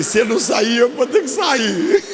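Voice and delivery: rising into a laugh; laughing retold thought. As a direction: let the punchline climb and crack into laughter.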